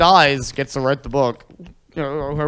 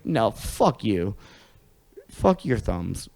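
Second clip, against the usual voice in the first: dismissive retort; 5 semitones lower, 4 dB quieter, much slower than usual. Retold or imitated. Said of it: "And I'm just like".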